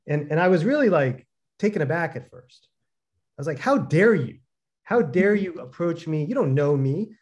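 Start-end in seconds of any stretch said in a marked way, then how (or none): 3.6-7.1 mock indignant. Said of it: "I started getting defensive".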